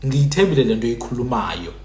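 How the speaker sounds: Zulu-style sample sentence; Zulu pronunciation. Shown as a demonstration. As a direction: demonstrate the Zulu version with ng. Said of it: "a Zulu would say".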